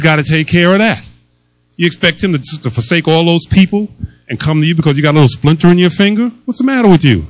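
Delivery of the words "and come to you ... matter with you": 1 mocking scold. Mocking the enemy's whisper.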